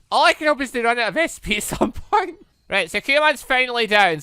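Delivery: normal talking voice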